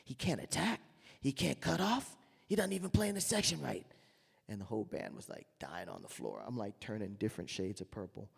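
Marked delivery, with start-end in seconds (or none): 0.0-3.9 higher, louder indignant rant; mocking angry complaint. Bandleader complains to Bobby about the new trumpeter, high indignant rant. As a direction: ham up a furious bandleader griping. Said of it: "He says".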